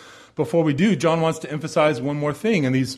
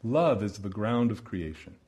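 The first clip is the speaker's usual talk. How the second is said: a hushed, reflective repeat; soft echo; 6 semitones lower, 8 dB quieter than usual. Acted. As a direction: repeat the quote much softer, letting it sink in. Quote repeated to let it sink in.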